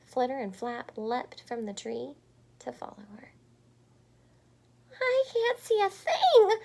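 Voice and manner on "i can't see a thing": high, loud yell; loud high panicked yell. Acted. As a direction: yell it in the dark. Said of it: "yelled Pip".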